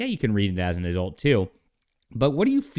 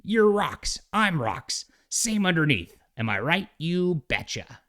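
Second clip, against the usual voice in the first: higher hammed-up Southern accent; folksy Southern twang, laid on thick; overdone Southern folksy accent, mocking; Southern Thing voice; 10 semitones higher, slower than usual. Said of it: "a little too, uh, Southern".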